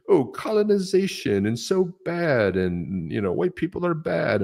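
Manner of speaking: high, slow mock whine of the critics. Ranting host mocks the museum's critics with a mock whine. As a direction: sneer as you mimic their complaint. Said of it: "they're like".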